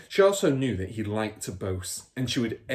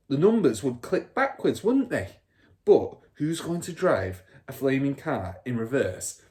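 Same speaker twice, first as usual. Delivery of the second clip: higher, puffed-up storyteller; scheming father; 6 semitones higher, 4 dB louder than usual. Acted. Father telling son his scheme, puffed-up. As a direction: build up to the big idea.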